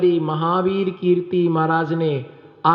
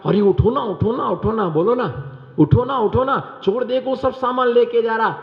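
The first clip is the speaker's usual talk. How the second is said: wife urging husband awake; 4 semitones higher than usual. Retold or imitated. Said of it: "पत्नी ने कहा".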